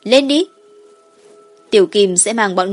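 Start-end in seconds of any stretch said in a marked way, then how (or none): 0.0-0.5 put-on eager child call. Dragon child calling riders aboard.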